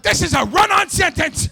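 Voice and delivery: high, loud sing-song retort; high loud sing-song mock yell. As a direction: shout back like a sarcastic kid. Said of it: "I'm like".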